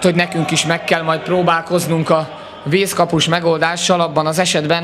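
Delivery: ordinary delivery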